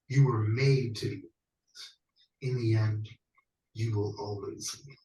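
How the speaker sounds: loom over them as a tyrant demanding obedience; megalomaniac rant. Acted. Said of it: "Your bad acting hint".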